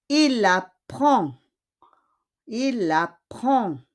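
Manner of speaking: "Il apprend" slow, ending on the nasal vowel without D; teacher's drawn-out "Il apprend" with no final D; silent final D. Shown as a demonstration. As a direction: model "Il apprend" slowly, D left silent. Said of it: "we don't pronounce the D".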